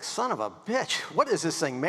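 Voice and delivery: high, startled curse at what he finds; mock-shocked swearing; retold cursing. Homeowner ripping off siding, shocked, high curse.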